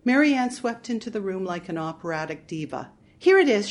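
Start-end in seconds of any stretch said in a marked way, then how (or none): 3.2-3.7 high, loud triumphant cry. Acted. Sister returning with the box, triumphant and loud. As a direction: announce it like a diva's win. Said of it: "she said triumphantly".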